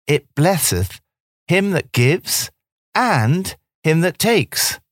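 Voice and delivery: rising, slowing recital of Portia's lines; reciting Shakespeare. Acted. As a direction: declaim it like a stage speech, drawing out the end. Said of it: "Portia's speech in The Merchant of Venice".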